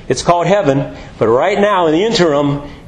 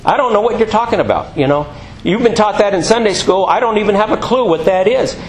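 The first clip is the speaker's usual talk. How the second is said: honest admission; 5 semitones higher than usual. Pretend.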